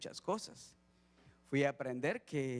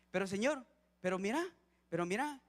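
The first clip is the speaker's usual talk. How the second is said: put-on higher, insistent childlike pleading; pleading like a child; 5 semitones higher than usual. A preacher mimicking believers pleading with the Lord, higher and childlike. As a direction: tug at the Lord's sleeve like a small boy.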